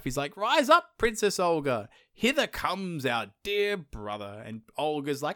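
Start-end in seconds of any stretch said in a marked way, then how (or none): 0.4-4.4 grand summons, high at the start; hammed-up heroic proclamation; crying out. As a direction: call the wife out with mock ceremony. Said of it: "cries to his wife".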